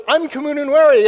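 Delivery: loud, high, jolly self-introduction; jolly guy. Retold or imitated. Jolly ambassador greeting him at the airport, hearty imitation. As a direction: imitate a jolly man announcing himself. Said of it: "this jolly guy comes running up".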